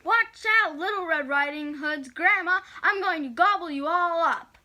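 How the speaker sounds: mock-menacing shout; shouted warning. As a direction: call out a threat to the house. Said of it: "he shouted".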